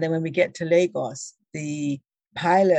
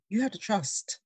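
self-reassurance. Retold or imitated. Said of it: "take a deep breath and I say".

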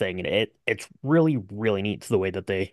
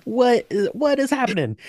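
exasperated disbelief; 12 semitones higher than usual. Real, not acted. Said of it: "reacting to film ending".

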